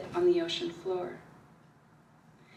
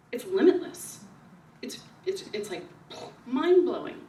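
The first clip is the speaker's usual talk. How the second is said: retold rapture; 2 semitones higher, 3 dB louder than usual. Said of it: "And I said".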